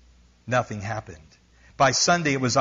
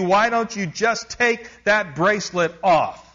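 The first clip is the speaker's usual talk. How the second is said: raised, pointed scolding voice, slowing at the end; blunt outburst; 5 semitones higher than usual. Retold or imitated. Missionary blurting harsh truths at the medium, raised and blunt. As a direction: let it all pour out in a blunt torrent.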